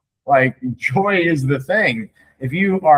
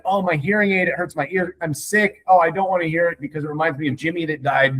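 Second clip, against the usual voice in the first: higher-pitched, hammed-up excuses; put-on plaintive griping; mock complaining; 3 semitones higher than usual. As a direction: play a pitiful complainer. Acts out excuses for hating laughter.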